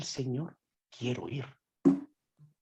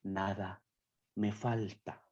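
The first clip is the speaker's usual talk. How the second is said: soft recitation; 6 semitones lower, 10 dB quieter, slower than usual. Real, not acted. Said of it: "quoting Psalm 23 softly".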